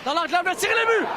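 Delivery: fast, shouted goal call; excited goal call. Real, not acted. Goal call in hockey broadcast.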